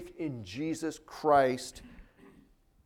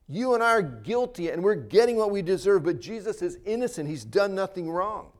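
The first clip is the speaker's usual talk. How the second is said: raised, urgent scolding in a retelling; acted rebuke; 5 semitones higher, 4 dB louder than usual. One criminal reproving the other on the cross, rebuking. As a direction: tell him off firmly, pitch lifted. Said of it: "he rebukes him, saying".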